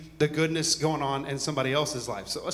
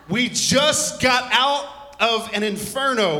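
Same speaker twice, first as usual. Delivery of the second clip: emphatic; 6 semitones higher, 6 dB louder, slower than usual. Acted. Preacher stressing summer heat.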